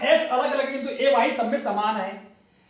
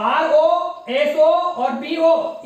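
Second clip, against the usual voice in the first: slow spelling; 4 dB louder, much slower than usual. Shown as a demonstration. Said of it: "slow spelling demo to children".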